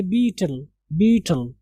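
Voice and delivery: बीटल with a long ee, not e; correct pronunciation. Shown as a demonstration. Teacher correcting students, बीटल with long ee. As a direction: stretch the ee in बीटल. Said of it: "आप इसको बेटल नहीं पढ़ेंगे".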